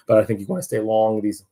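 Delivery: real accidental pubescent voice crack; voice cracking upward. Real, not acted. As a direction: voice jumps up mid-sentence. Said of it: "my voice went up like Peter Brady".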